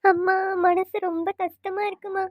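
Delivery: slow, tearful complaint to mother. Acted. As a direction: cry it out slowly to your mother. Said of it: "அழாத, என்னாச்சு?".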